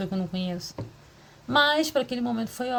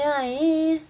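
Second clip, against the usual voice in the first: perking up; 5 semitones higher, 4 dB louder than usual. Retold or imitated. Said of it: "Aí eu falei".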